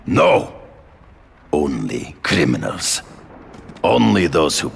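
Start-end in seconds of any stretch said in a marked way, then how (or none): 0.0-0.5 sharp denial. Acted.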